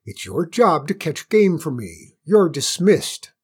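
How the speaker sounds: loud, high imperious scolding; angry royal telling-off; railing queen. A narrator's reading. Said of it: "railed the queen".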